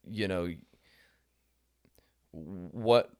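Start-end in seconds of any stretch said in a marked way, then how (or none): 2.3-3.1 breathy whispered start of the lyric. Retold or imitated. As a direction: breathe the word out with no voice. Whispered opening of quoted lyric.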